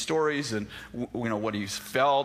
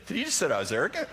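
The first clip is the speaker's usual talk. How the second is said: 1 delayed realisation; 3 semitones higher, faster than usual. Retold or imitated. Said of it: "You're like".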